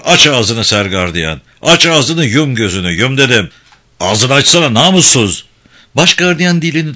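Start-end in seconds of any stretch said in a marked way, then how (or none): 0.0-5.5 menacing threat. Acted. Director pointing a gun at the guard, menacing angry orders. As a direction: threaten him down the barrel.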